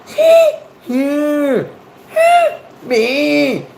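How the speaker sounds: very high, squealed Scottish syllables; mock Scottish accent. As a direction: squeak out a cartoon Scottish exchange, punching the short words. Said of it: "That's my Scottish conversation in two syllables".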